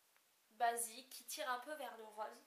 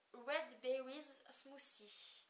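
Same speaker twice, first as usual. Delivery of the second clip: "Red Berries Smoothie" said in English with a strong French accent; awkward French take on an English product name; slower than usual. Real, not acted. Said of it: "excusez-moi pour l'accent anglais".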